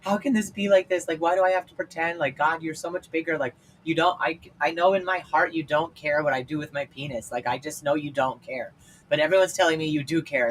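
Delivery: a hint of the desperate sob, begging; retold sobbing prayer. Teen crying alone in the car to God, pleading and high. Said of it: "wailing and sobbing and bawling in the car".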